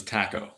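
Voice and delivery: "taco" with a short A as in cat; mimicked short-vowel "taco"; British-style taco. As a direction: say "taco" as TACK-oh. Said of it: "no Mexican, no Spaniard".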